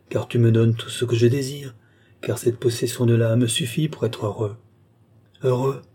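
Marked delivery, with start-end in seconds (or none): 5.4-5.8 contempt. Acted. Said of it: "d'un air de mépris".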